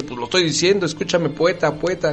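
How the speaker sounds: put-on child protesting. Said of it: "Y el otro dice".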